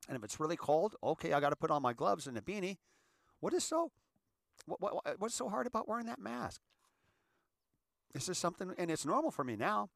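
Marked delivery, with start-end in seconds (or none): 3.4-6.6 high, incredulous what's so hard; exasperated. Real, not acted. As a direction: throw up your hands in disbelief. Exasperated rhetorical question.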